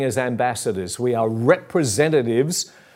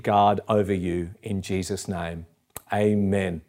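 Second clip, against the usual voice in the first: softer, lower blessing, settling to amen; closing prayer; 4 semitones lower, 3 dB quieter than usual. Real, not acted. Preacher blessing the congregation in Jesus' name, gentle prayer. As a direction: pray gently over the listeners.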